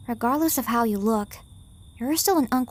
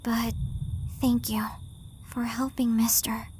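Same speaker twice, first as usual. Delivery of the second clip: much softer, almost whispered gratitude; shy soft thanks; 9 dB quieter than usual. Acted. Girl thanking Mister, Yashiro and uncle, shy and soft. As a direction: mumble the thanks, embarrassed.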